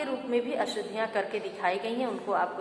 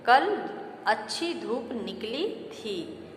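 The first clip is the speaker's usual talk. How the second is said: corrected sentence read slowly; slower than usual. Shown as a demonstration. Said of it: "शुद्ध रूप है".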